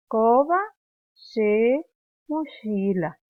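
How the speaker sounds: slow loud drill. Shown as a demonstration. Teacher leads class repetition, loud. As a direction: chant it word by word for the class. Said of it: "suave nomás la she".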